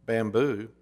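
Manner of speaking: a hint of a solemn master; grave master. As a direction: call the name gravely. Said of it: "the master's voice was grave".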